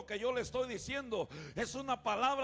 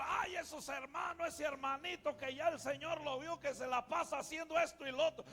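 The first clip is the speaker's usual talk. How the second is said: higher-pitched, half-shouted mimic of the pastor; a hint of a scolding preacher, higher up; mock pastor scolding; 5 semitones higher than usual. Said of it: "Y un día el pastor".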